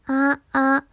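high, loud test notes; voice-change test. Shown as a demonstration. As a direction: try pitching your voice up, loudly. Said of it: "変わってんのかな". (高めの声で発声テスト)

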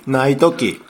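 laughing through the ad line; slow, drawn-out jingle delivery; 551 commercial. Retold or imitated. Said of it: "これでおなじみの".

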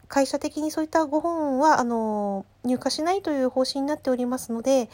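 bright apologetic phone manner; customer service voice. Retold or imitated. Clerk explaining policy. (丁寧な接客ボイス)

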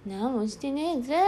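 slow, drawn-out rural dialect answer; acted dialect denial. Accused one saying they did nothing, drawling dialect denial. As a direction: stretch the last sound in country dialect.

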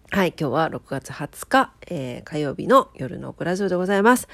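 stuffy nasal voice; blocked nose. Real, not acted. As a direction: speak with a congested nose. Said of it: "そんな鼻声の夜".

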